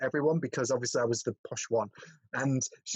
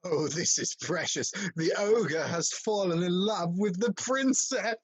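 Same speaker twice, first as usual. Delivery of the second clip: theatrical, savouring every word; mocking villain; 2 semitones higher, much slower than usual. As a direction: sneer it out slowly as the story's schemer. Reading a film script scene.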